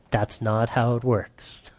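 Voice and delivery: soft whispered correction. Acted. Pastor whispering to a wife that it doesn't work that way.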